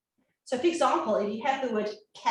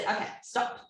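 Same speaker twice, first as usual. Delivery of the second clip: soft teacher stop; 4 dB quieter than usual. Retold or imitated. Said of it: "And I said".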